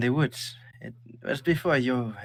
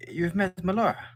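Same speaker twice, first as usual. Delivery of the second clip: surprised mother; 9 semitones higher than usual. Acted. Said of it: "looks at you and goes".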